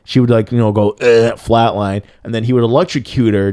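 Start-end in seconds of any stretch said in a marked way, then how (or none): 0.9-1.3 short mock "ugh" of flatlining; quick put-on death noise; imitated dying groan. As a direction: act out keeling over with a brief groan. Acting out her flatlining.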